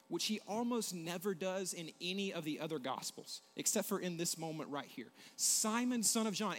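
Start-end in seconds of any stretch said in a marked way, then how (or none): 5.3-6.5 calling by name. Acted. Jesus calls Peter by name.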